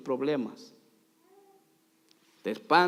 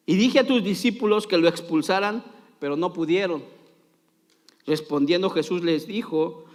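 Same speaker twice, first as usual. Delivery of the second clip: dramatic Bible reading; 4 dB louder than usual. A narrator's reading. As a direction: narrate scripture with theatrical emphasis. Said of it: "soy bien dramático".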